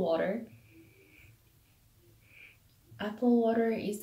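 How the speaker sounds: muffled behind held jar; speaking while sniffing jar; through hand over mouth. Real, not acted. Seen 1: hand and jar cover mouth sniffing until ~0.9s, then lowered.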